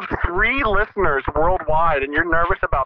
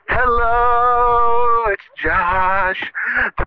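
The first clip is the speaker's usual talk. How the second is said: podcast host intro; 4 semitones higher, much slower than usual. Pretend. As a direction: announce it like a radio host. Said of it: "the next episode of".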